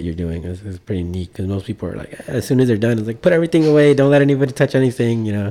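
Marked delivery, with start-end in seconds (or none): 2.3-5.3 higher-pitched mock protectiveness; lightly hammed-up urgent instructions; imitated fussy warning. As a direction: act out a worried hands-off order. Acts out protective performers' usual attitude.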